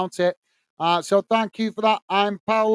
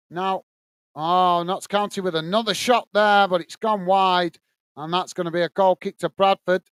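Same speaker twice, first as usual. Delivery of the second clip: steady live match commentary; play-by-play; 2 semitones lower than usual. Acted. Commentator calling the match for stream viewers, play-by-play. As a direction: call the action as it unfolds.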